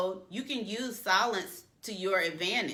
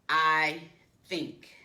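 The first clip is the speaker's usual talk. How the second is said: "I think" as a hesitant applicant; mock applicant; 4 dB louder than usual. Coach mocks applicants starting with I think, lightly voiced. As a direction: lightly imitate a job applicant. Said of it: "do not start sentences in a job interview with".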